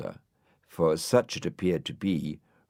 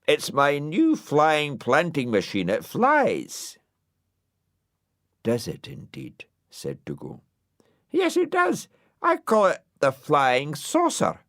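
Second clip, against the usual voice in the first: a lightly voiced inventor, higher and eager; proud of his new invention; excited inventor; 7 semitones higher, 4 dB louder than usual. Mister McHenry shows off his flying machine, eager and high.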